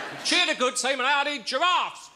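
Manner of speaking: high booming announcer cry; booming old melodrama narrator. Acted. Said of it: "come on, it's not a Tupperware party, this is a football match".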